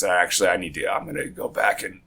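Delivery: rough, just-woke-up voice; groggy morning voice. Real, not acted. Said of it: "I have morning voice going on".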